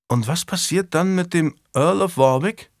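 lightly voiced lad probing his master; young squire. A narrator's reading. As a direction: raise the voice a little for the squire.

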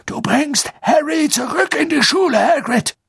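high loud sharp order; firm command. A narrator's reading. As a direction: order it sternly.

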